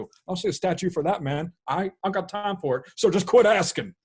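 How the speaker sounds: a gruff football coach complaining, then snapping off; Nick Saban. Acted. Coach griping to the host about quarantine, then snapping. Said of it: "What's making him angry today?".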